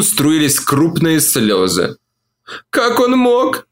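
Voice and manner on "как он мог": high moan, stress on «он»: «Как ОН мог?»; moaning woman. A narrator's reading. Olivia moans to Mark about Tim, «он» stressed. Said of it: "стонала она".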